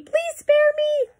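high, slow, drawn-out plea; frightened begging. A narrator's reading. Elephant begs the mouse to spare it, frightened. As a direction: beg for mercy in a squeal.

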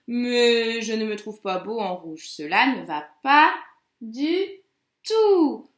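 loup qui boude, légèrement joué; détacher «pas», «du», puis lancer «tout» plus fort; loup mécontent. Acted. Teacher voices the displeased wolf. (loup contrarié, un peu théâtral)

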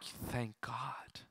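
breathless whispered thank God; whispered relief. Retold or imitated. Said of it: "we were like".

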